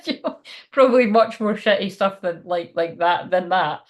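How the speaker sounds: real laugh breaking into the words; laughing while talking. Real, not acted. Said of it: "I'm just laughing".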